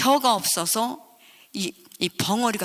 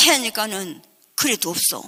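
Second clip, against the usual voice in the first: ordinary delivery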